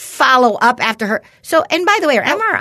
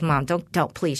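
hushed pleading; 7 semitones lower, 8 dB quieter than usual. Retold or imitated. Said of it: "she goes".

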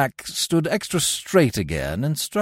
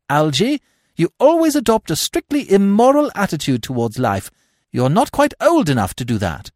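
put-on higher, louder imperious young lady; Gwendolen, commanding; 3 semitones higher, 4 dB louder than usual. Gwendolen dismissing her cousin, imperious. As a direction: order him about grandly. Gwendolen voiced in read play.

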